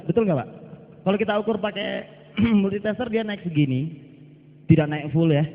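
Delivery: talking while smoking; words around a cigarette; cigarette in mouth. Real, not acted. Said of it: "sambil ngerokok nggak apa-apa ya".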